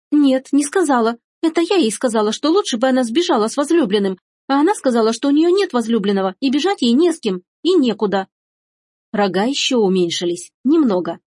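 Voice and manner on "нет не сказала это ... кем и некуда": higher-pitched girl's voice, lightly acted; confessing daughter. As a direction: admit it all, pitched up. (девочка оправдывается)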